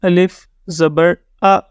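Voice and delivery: آ said with the mouth wide open, slow and drawn; teacher sounds الف زبر آ slowly, mouth open. Shown as a demonstration. Teacher showing students the zabar, mouth wide open. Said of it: "منہ کھول کے پڑھتے ہیں تو ہم کہتے ہیں".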